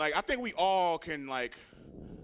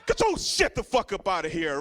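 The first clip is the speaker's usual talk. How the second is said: angry; 2 semitones higher, 5 dB louder than usual. Retold or imitated. Relative chasing him off.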